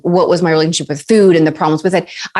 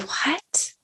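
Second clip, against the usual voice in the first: shocked what; 11 semitones higher, 13 dB quieter than usual. Retold or imitated. Stunned reply to photographer's threat.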